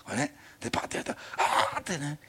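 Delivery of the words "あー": acted cry of amazement; astonished gasp. Preacher re-enacting a startled Bible scene, astonished. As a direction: let out a drawn-out amazed "ah". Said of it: "非常に驚いた".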